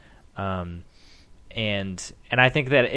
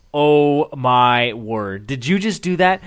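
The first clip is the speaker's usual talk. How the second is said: astonished wife; 2 semitones higher, 6 dB louder, much slower than usual. Retold or imitated. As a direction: stretch out Oh my word in disbelief. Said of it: "the wife was like".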